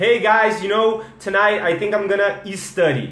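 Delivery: fake broken English, heavily overdone. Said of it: "Errou tudo".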